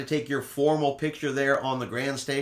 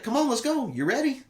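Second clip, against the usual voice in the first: upbeat crew call; 12 semitones higher than usual. Retold or imitated. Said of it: "the guy was at the door was like".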